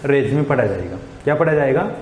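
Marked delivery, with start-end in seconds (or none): 0.0-0.4 रेज्यूमे said "rezyume" with the e-sound at the start; correct pronunciation. Shown as a demonstration. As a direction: say रेज्यूमे as "re-zyu-me", not "rizyum". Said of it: "ऐसे ये application पढ़ा जाएगा". (सही उच्चारण: रेज्यूमे)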